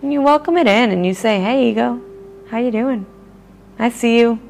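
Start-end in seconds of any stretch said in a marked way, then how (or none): 1.4-4.4 loving voice. Shown as a demonstration. Speaker greets her own ego in a friendly, loving voice. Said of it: "talking to it in a loving voice".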